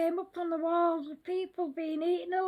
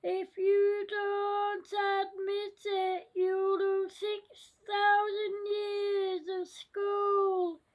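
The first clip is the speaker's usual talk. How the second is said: scary voice. Acted. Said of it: "said the scary voice".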